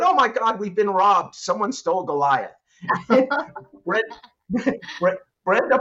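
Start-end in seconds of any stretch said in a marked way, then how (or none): 0.0-2.5 high-pitched mock alarm; retold yell. Boss finding the copier gone, mock alarmed yell. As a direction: re-enact a panicked yell, easing off at the end. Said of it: "and I yelled out".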